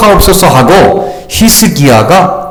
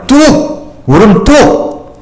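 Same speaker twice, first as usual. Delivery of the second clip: put-on higher, slow stern parent telling a child to stop crying; mock a strict parent hushing a crying child; a touch of an old-school parent snapping at tears; scolding parent; 3 semitones higher, much slower than usual. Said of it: "우리 부모님이 얘기했던 말".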